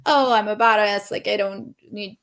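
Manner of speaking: mock tough-girl bravado; lightly put-on sarcastic front; sarcastic badass. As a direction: brush it off like a self-styled badass. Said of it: "with a lot of sarcasm".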